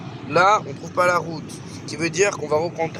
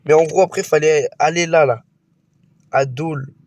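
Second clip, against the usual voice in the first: excited loud; 5 dB louder than usual. Real, not acted.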